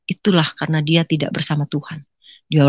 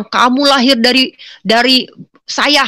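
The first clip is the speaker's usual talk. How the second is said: higher, emphatic acted scolding; mother's tirade; 6 semitones higher, 3 dB louder than usual. Mother berating her daughter, mild tirade. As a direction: lightly mimic a mother laying down her claim.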